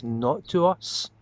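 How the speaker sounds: drawn-out plea to God; slow, earnest entreaty; pleading. Acted. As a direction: stretch it slowly, imploring the Lord. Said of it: "It's almost like a plea".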